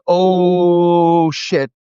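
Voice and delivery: startled curse. Retold or imitated. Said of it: "was like".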